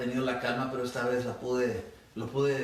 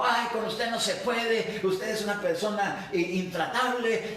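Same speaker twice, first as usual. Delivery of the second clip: higher, shrill-edged mock yell at the preacher; retold angry shouting; 6 semitones higher than usual. Visiting woman storming off, retold as a high mock yell. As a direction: imitate her storming off, voice raised high. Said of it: "y se fue gritando".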